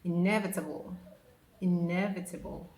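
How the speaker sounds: inevitable as "in-EV-uh-tuh-bul"; teacher's inevitable; careful inevitable. Shown as a demonstration. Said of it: "So it's pronounced inevitable".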